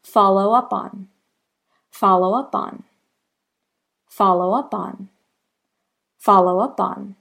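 "Follow up on" linked into one flowing group; linked demo. Shown as a demonstration. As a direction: let "Follow up on" run without breaks. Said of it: "And that should sound like this".

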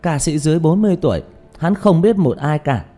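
high, loud, gushing fan; starstruck excitement. Acted. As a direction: butt in eagerly, begging for an autograph. Starstruck fan interrupting the singer. (giọng hâm mộ cuống quýt, cao và to)

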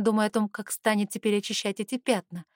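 ordinary delivery, nothing marked

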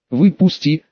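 slow, quiet, syllables stretched; quiet drawn-out voice. Acted. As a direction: draw each syllable out quietly. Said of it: "сказал синекожий тихим голосом, медленно растягивая слога".

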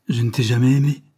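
flinging the words at him; cry out. Acted. Stéphanie to her jailed lover, crying out. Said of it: "s'écria-t-elle".

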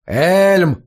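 loud bellowed name; roar. A narrator's reading. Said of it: "взревел в коридоре мастер Райделан".

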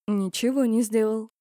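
ordinary delivery, nothing marked

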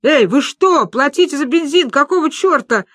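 loud, high outraged yell. A narrator's reading. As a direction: bellow it like a robbed attendant. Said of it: "орал Сашка". (возмущённый крик)

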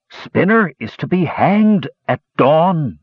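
slow, high urgent gnome voice; gnome announcing. A narrator's reading. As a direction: blurt the news breathless. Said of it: "declared the gnome".

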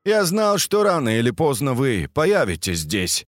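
lightly voiced gloating villain; smug villain. Villain Strass voiced, raised pitch.

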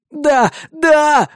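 high, desperate yelling; frantic yell. Acted. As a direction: scream yes in a frenzy. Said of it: "иступлённо орал Сайков".

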